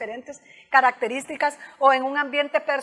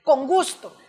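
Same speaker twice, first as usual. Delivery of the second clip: polite assertive refusal. Shown as a demonstration. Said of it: "¿Cómo es?".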